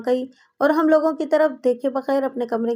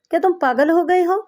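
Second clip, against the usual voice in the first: higher, louder angry shout; 4 semitones higher, 3 dB louder than usual. A narrator's reading. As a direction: yell at him to snap out of it. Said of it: "چیخ کر بولے". (غصے میں چیخ)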